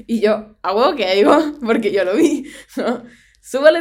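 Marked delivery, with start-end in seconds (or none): 0.6-2.4 insistent retort. Retold or imitated. Insisting she saw her father.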